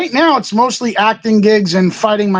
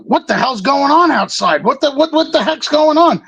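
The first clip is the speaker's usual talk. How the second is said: raised pitch, climbing as it repeats; retold baffled demand; 5 semitones higher than usual. Cops to security guards about the crowd outside, retold baffled demand. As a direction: imitate a cop demanding answers.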